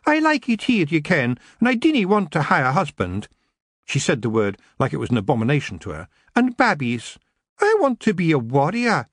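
put-on high, pleading Scots girl; a wee girl begging to stay; little lassie voice. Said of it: "her best little lassie voice".

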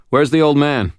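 high, loud call over the shoulder. A narrator's reading. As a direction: call it back over the engine. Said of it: "called over his shoulder".

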